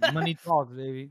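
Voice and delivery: said through laughter; laughing. Real, not acted. Laughing at the book line.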